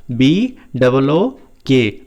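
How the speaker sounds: slow, letter by letter B double O के; slow spelling. Shown as a demonstration. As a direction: spell B double O के slowly for the class. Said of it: "यदि आपको ऐसे नहीं पढ़ना". (B double O के धीरे-धीरे)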